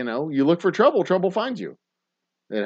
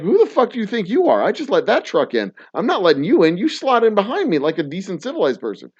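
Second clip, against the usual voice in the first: mock indignant, higher and heated; retold angry retort; 6 semitones higher than usual. Driver scolding a woman cutting in, indignant. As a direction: tell her off like you're still mad. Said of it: "I'm like".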